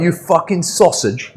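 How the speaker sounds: mock Scouse insult, slowed down; imitating a Scouser's insult; hammed-up Liverpool accent; Scouse impression. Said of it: "He's like".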